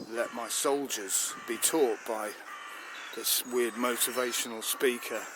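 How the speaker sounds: grind out the grievance; angry. Acted. Army chief complains to the minister about the naturalist, mildly angry. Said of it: "I'm angry".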